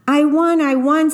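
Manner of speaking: excited cry of victory; triumphant shout. Acted. Ronald triumphs over the night.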